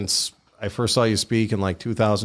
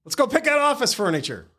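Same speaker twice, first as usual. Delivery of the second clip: real laughter lifting the voice much higher; laughing. Real, not acted. Host replies to guest's complaint about no drinks, laughing. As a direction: crack up while getting the line out.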